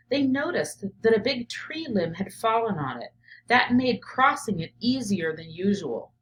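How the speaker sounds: steady read-aloud narration for a class; picture book read to kids; story reading. Acted.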